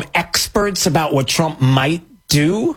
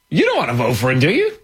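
leading pollster; faster than usual. Retold or imitated. Pollster steering a respondent, mock coaxing question. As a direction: lead the witness, pitch up on the tag.

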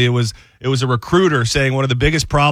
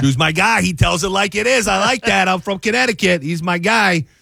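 higher-pitched, insistent fan impression; imitated fan enthusiasm; 8 semitones higher than usual. Host retelling a fan praising his favorite host, enthusiastically. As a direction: gush like a devoted fan, pitched up.

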